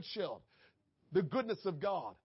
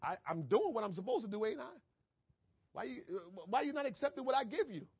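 mock defiance; 3 semitones higher, faster than usual. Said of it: "we say".

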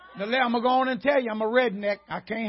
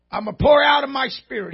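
crying shout; 2 semitones higher, 6 dB louder than usual. Real, not acted. Preacher cries out the scripture.

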